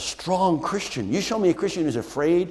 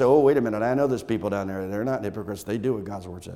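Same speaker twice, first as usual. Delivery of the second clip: calm defender; 4 semitones lower than usual. Pretend. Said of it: "speak up and say".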